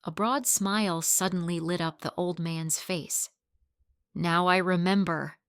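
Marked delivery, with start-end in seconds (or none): 4.1-5.4 exclaimed. Acted. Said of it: "he exclaimed".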